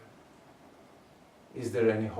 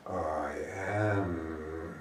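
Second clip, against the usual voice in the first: a low chant-like I am; deep I am; 5 semitones lower than usual. Shown as a demonstration. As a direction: lower voice, low and resonant. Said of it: "Make it deep".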